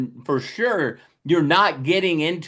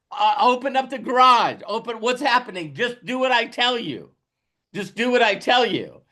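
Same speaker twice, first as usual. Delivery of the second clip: higher, pushy demand; excited urging; 6 semitones higher than usual. Pretend. Driver urging family to open garage, eager higher voice. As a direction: hurry them up, eager.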